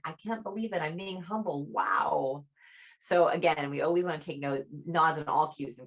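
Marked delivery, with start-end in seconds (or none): 0.0-2.5 humble disbelief. Shown as a demonstration. Demo of a humble person deflecting praise after big news. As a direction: shrug it off, humbly waving away praise. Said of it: "as a way of being like".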